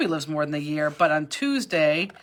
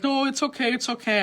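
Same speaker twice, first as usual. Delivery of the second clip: higher-pitched imitation of people consoling; mock reassurance; 7 semitones higher than usual. Friends consoling a worried dog owner, retold high reassurance. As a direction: pitch it up, as if soothing someone upset.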